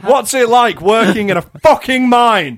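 very high, loud sneering toff voice; mock snobby southerner. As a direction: taunt the northerners, laughing. Continues snobby mockery.

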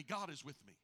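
low, soft "God is with me"; hushed declaration. Shown as a demonstration. Preacher giving the church words to repeat, hushed declaration. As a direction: say it low and quietly for them to repeat. Models line for congregation, hushed.

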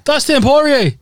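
high, loud New Zealand accent attempt. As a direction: shout the name in a dodgy New Zealand accent. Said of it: "That was New Zealand".

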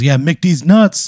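high, stretched-out jeering call; heckler's yell. Acted. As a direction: draw it out like a rowdy bar heckler. Rowdy crowd member yells out.

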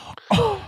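indignant throaty puff; bratty teen huff. Shown as a demonstration. Demonstrating a bratty teenage sound, indignant huff. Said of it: "like, a bratty teenage person".

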